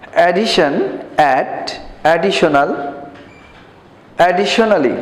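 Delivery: teacher leading a word drill; repeat after me. Shown as a demonstration. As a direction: model each word for the class to repeat. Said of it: "আমার সঙ্গে তোমরা বলো".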